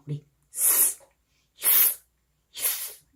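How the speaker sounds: soft long hissing sss; snake hiss. Shown as a demonstration. Teacher showing how a snake sounds, soft hiss. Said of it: "이렇게 가는 거죠".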